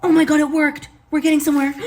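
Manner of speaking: high, loud delighted exclaim; thrilled. Real, not acted. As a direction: burst out with real joy. Recipe finally works.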